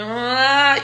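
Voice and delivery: drawn-out, high "aah"; mock clashing cry. Imitates the two clashing.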